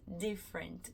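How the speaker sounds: different with lips spread as if smiling, clean d; the right different, smiling lips, crisp d; lips open, correct d. Shown as a demonstration. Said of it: "Abre os lábios quando eu falar different".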